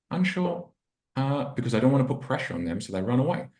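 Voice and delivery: wishy-washy. Retold or imitated. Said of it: "wishy-washy ridiculousness".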